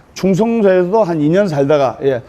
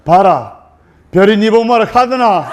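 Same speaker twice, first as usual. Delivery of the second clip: gruff Gyeongsang husband. Retold or imitated. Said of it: "경상도 신랑이".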